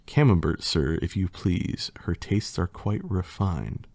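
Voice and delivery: lightly theatrical poem reading; reading a silly poem to the audience with mock drama; hammed-up storybook recital; story narration. Reads rhyming story aloud.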